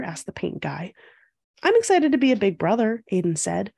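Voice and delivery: measured storybook read-aloud; picture-book narration. A narrator's reading. Host reading a picture book to young viewers, storytelling. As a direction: read it clearly to young children.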